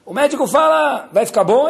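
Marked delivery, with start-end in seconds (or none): 1.1-1.7 high, loud worried plea; anxious king. Acted. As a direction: press the doctor for an answer, worried. King anxiously asks doctor. (rei aflito pergunta ao médico, voz alta e ansiosa)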